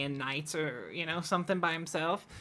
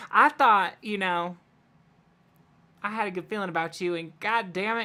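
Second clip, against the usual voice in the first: higher and louder, bursting with delight; excited gushing NPC; 4 semitones higher, 4 dB louder than usual. Acted. Game master voicing a thrilled townsman hugging Bark. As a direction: gush like he just found a best friend.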